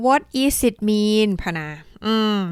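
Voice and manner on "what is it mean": imitating a learner mistake. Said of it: "บางคนบอก".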